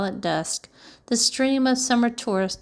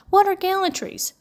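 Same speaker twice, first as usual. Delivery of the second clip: ordinary delivery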